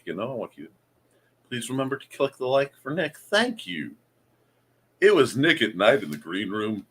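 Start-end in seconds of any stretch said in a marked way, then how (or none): 5.0-6.9 radio voice. Pretend. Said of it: "Radio voice Nick".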